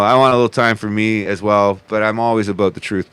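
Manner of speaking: ordinary delivery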